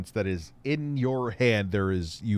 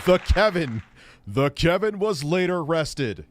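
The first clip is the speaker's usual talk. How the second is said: mock caption narrator voice; 4 semitones higher, 3 dB louder than usual. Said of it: "I sounded like F-, the Philip Burnell there".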